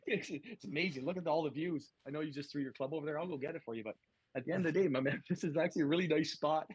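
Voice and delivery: upbeat caddy. Retold or imitated. Caddy consoles his golfer about the round, upbeat. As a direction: talk up the round like a cheery caddy.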